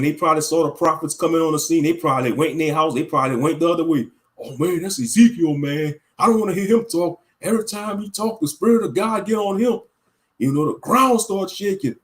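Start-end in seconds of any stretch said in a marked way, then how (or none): 4.4-9.8 nervous townsperson. Retold or imitated. Imitates scared townspeople about Ezekiel.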